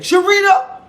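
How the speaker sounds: high, laughing, teasing; laughing scold. Retold or imitated. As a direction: chide her while laughing. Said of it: "let's say he was like".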